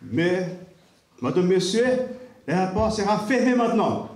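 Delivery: lightly voiced airport announcer; strange announcer voice. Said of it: "une voix bizarre qui disait".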